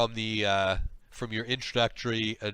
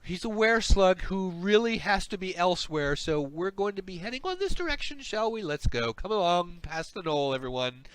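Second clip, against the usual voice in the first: a touch higher, smoothing things over; lightly acted slug, pitched up then easing down; lightly voiced slug; 6 semitones higher than usual. Slug hurrying the party past the gnoll, mild cover-up. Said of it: "the slug behind you, uh, says".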